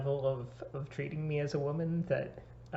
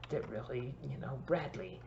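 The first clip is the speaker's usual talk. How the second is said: whisper; 5 dB quieter than usual. Pretend. Guilty friend confessing a secret.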